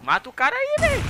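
high, loud urgent call to a teammate; sharp high shout mid-fight. Real, not acted. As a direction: yell at him to take the kill. Urging teammate during fight.

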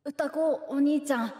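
slow, pleading call of the name; coaxing plea. Shown as a demonstration. Host calling the guest big brother, slow and pleading. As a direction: stretch it out like begging a favour. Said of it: "欲しがってる、おねだりする感じで".

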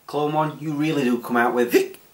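ordinary talk, nothing marked

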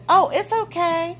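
high, mock soothing; sarcastic sympathy. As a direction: sweet-talk it with sarcasm. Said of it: "us as people are supposed to say".

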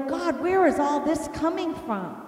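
loud retold appeal; exasperated plea. Angry wife upstairs asking God, exasperated. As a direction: call out in mock exasperation.

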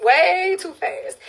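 dragged out slowly for emphasis; slow emphatic repeat. Shown as a demonstration. Streamer warning viewers, slow emphatic repeat. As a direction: stretch each word, way too fast.

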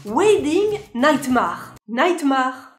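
"Nightmare" said French-style, ending in "mar" with a French r; drawn-out "Wedding Nightmare" with a French "-mar" ending; French mispronunciation. Retold or imitated. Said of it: "je sais qu'on dit Wedding Nightmare".

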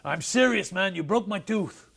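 hammed-up sore wrestler; imitating angry Hulk. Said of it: "And he was pissed".

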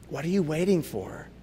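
ordinary talk

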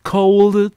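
'cold' said out as a clear model word; model pronunciation. Shown as a demonstration. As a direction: demonstrate 'cold' firmly, on its own. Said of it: "se pronuncian igual". ('cold' pronunciado como modelo, claro y firme)

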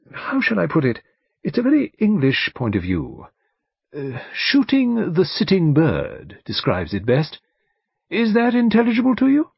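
high, deliberate barrister voice; barrister, explaining. Acted. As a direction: search carefully for the right phrase. Barrister explains his view.

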